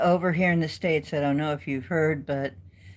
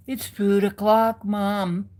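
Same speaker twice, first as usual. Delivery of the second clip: lighter cat voice; 4 semitones higher than usual. Retold or imitated.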